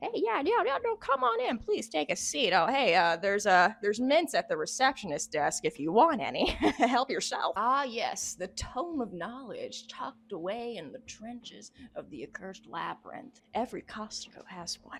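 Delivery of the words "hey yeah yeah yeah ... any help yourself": genial, friendly, welcoming manner. Joking that the game character runs an office, playing the friendly office boss. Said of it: "bro just has a whole office down there with an H R department".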